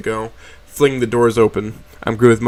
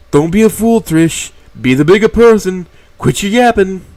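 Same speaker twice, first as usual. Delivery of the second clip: loud, high, scolding; stern scolding; 8 semitones higher, 8 dB louder than usual. A narrator's reading. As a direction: tell her off firmly. Mo scolds Trish loudly.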